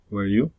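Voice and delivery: "were you?" with "you" lifted; rising tag question. Shown as a demonstration. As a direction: swing the pitch up on "you". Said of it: "Falling or rising intonation".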